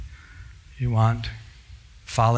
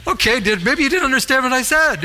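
mock exasperated reply; 10 semitones higher, 5 dB louder than usual. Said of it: "I'm like".

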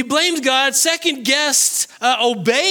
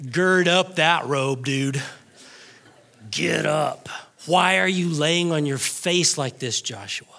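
low, contained reprimand, dropping softer at the end; God's restrained scolding; 7 semitones lower, 3 dB quieter than usual. Acted. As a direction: scold in a low voice, like a parent in public. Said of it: "That's what God did to Joshua right here".

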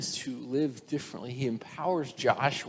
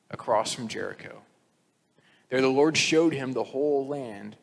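scripture reading. Acted. Preacher reading Deuteronomy to the congregation, measured.

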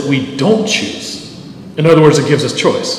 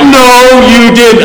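mock shout; 8 semitones higher, 9 dB louder, much slower than usual. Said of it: "I'm like".

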